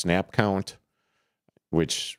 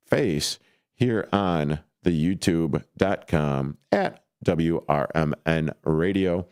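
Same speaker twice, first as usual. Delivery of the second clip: slower, drawn-out plug; slow repeat; 2 semitones lower than usual. Real, not acted. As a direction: draw the plug out slowly. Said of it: "you too could watch".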